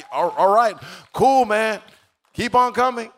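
high, loud mock-awkward approval; loud, high-pitched retold reaction; taken-aback encouragement.

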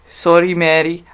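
careful second go at Scottish; Scottish accent attempt. Shown as a demonstration. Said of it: "do a better one myself".

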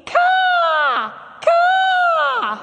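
high, loud crow call; crow caw. Shown as a demonstration. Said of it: "you're gonna yell really loudly".

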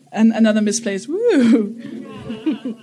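slow words broken by real laughter; giggling aside about the scientist's wording; laughing. Real, not acted. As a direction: laugh through it at the odd quote. Mocking the quoted scientist.

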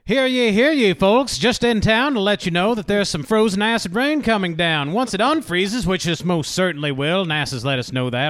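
newsboy voice. Acted. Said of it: "He threw that good newsboy voice out there".

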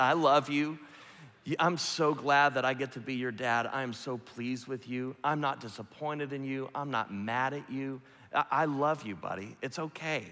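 a touch of reassurance, at normal level; plain retelling. Retold or imitated. Dad retelling the words to the congregation, lightly warm. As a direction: say it again, lightly.

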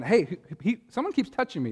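high, whiny complaint about being touched; whiny concertgoer. Retold or imitated. Preacher mimics a clueless concertgoer, high and whiny. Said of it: "going to a concert and you're on the floor and going".

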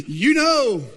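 high, loud parrot call; parrot punchline. Acted. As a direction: crow the bird's taunt out loud. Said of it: "the bird says".

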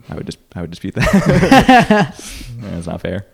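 high, loud and slow; mock indignant. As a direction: protest in mock outrage.

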